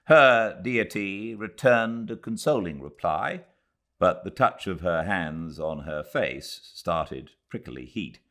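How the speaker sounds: measured, unhurried literary reading; story narration. A narrator's reading. Host reading A Passage to India aloud to viewers, steady storytelling narration. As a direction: read the novel aloud to listeners gathered by the fire.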